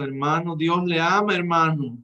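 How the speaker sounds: hammed-up cross sermon line; mock angry preacher. Shown as a demonstration. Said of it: "mostrando usted así enojado".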